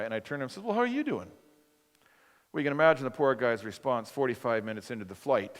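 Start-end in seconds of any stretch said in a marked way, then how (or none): 0.6-1.3 warm greeting. Retold or imitated. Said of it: "I felt warmth and compassion".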